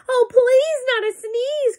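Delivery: very high, loud plea; bear cries out. Acted. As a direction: cry out in alarm. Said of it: "cried the bear".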